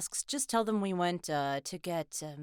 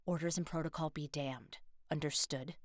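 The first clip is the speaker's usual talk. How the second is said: vicious threat; 3 semitones lower than usual. Acted. Teammate threatening the rookie before a risky mission, vicious warning. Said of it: "She's more vicious than normal".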